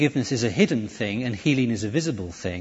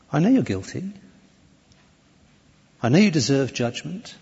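gentle, loving. Acted. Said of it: "the gentleness, the love in his voice".

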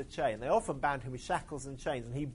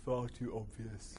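admonishing; 4 semitones lower, 6 dB quieter, slower than usual. Acted. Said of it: "admonished Marvin".

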